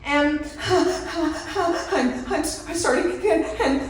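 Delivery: slow, laughing stammer. Real, not acted. Recalling the rat panic, laughing. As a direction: laugh through the words.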